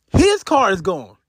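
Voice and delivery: his car is gone with his leaned on; stress on his. Real, not acted. Telling friends whose car was stolen, stress on his. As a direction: push the word his, not Eric's. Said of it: "Not Eric's".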